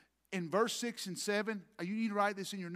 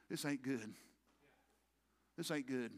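quiet foreboding; 5 semitones lower, 7 dB quieter than usual. Retold or imitated. David's foreboding, retold by preacher.

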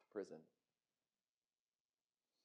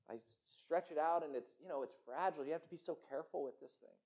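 hushed and careful; 4 semitones lower, 14 dB quieter, faster than usual. Acted. Goldsmith describes fragile work.

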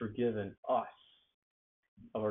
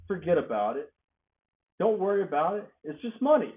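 breezy reassurance; 4 semitones higher, 4 dB louder than usual. Retold or imitated. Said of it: "of being owed something and saying".

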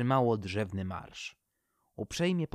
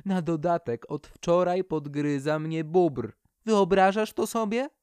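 higher, louder indignant chatter; complaining birch; 6 semitones higher, 5 dB louder than usual. Acted. The birch indignantly complains to her friends about beetles and the beaver. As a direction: pour out your woes, rising to outrage.

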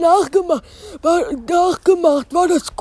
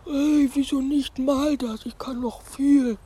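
inner thought; 6 dB quieter than usual. Acted. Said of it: "dachte sich Spike".

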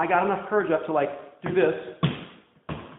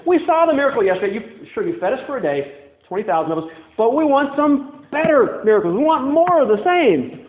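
louder, higher mock demand for miracles; demanding grumble; 5 semitones higher, 3 dB louder than usual. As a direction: whine for better miracles. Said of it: "saying the same thing".

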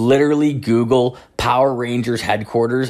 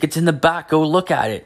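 eager doctor; 6 semitones higher than usual. Retold or imitated. Voicing doctor's invitation.

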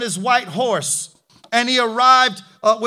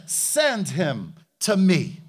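calm prophet; 4 semitones lower than usual. Retold or imitated. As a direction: speak as the unruffled man of God. Elisha voiced calm and low.

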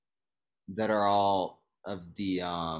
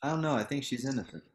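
a touch higher, feigning sincere doubt; deadpan sarcasm; 4 semitones higher, much faster than usual. Real, not acted. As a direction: play innocent with dry sarcasm. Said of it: "you being sarcastic?".

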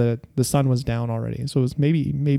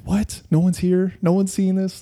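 higher-pitched, baffled questioning; retold bewilderment, pitched up; puzzled; 5 semitones higher than usual. Kid alone on a rooftop seeing strange lights, puzzled. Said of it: "I was just puzzled".

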